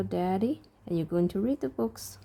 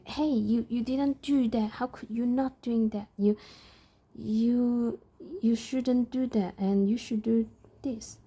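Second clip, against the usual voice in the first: mock scolding parent; 4 semitones higher than usual. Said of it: "I never talk like that".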